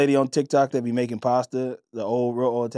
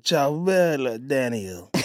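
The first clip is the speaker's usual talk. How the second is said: slow mock Italian; much slower than usual. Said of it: "and she's like".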